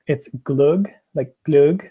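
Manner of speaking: "glug" said slowly and carefully, as learned from Swedes; Swedish pronunciation demo. Shown as a demonstration. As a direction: model "glug" as a Swedish word. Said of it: "I learned from Swedes that".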